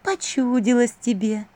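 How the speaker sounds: медленно, выше, чужим тембром; вкрадчиво успокой; голос двойника. A narrator's reading. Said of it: "заметила вторая Василиса". (двойник вкрадчиво, медленно)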